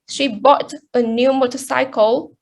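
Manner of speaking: "bought" stressed as the key word. Shown as a demonstration. Presenter contrasting buying with borrowing, stress on "bought". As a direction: punch "bought" to mark the action. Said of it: "so she bought it, not borrow it".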